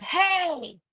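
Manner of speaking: high, drawn-out mock whisper; badly faked whisper that carries; loud failed whisper. Showing how bad their whispers are, loud whisper. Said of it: "My whispers are so loud".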